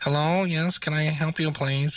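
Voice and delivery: real, strongly nasally tone. Showing how a mixer can change the vocal sound: nasal voice. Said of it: "I can make me sound real nasally".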